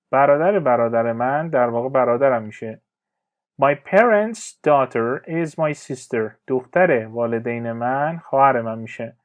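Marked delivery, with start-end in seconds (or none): 3.6-6.3 very slow, careful teacher reading; slow clear example. Shown as a demonstration. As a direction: spell each word out slowly for learners. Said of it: "teacher reads example sentence". (جملهٔ نمونه را خیلی آهسته و شمرده بخوان)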